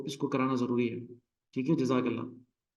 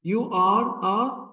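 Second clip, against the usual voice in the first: very slow, separate "You are a"; You... are... a, each word set apart; 4 semitones higher, much slower than usual. Shown as a demonstration. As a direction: spell out "You are a" slowly. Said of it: "ये stressed out नहीं है".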